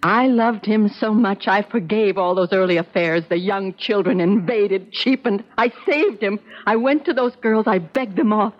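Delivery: anguished confession. Acted. Mother's distraught confession to son.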